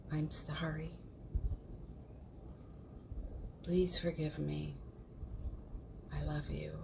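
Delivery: hushed, unhurried meditation voice; guided mantra. Real, not acted. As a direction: let each healing phrase settle into a long pause. Leads a Ho'oponopono recitation.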